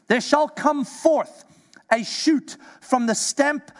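measured preacher's scripture voice; scripture reading. Acted. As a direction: read the prophecy with weight. Reads scripture aloud.

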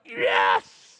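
low, loud gloating yes; triumphant yes. Retold or imitated. Haman sure he'll be honored, loud gloat. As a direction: pump your fist, low and loud.

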